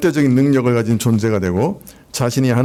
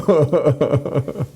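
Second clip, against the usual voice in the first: 짧게 터지는 진짜 웃음; 자기 의역에 웃음이 터지듯. Real, not acted. Laughs at own paraphrase. (설교 중 교인들 앞에서 가볍게 웃음)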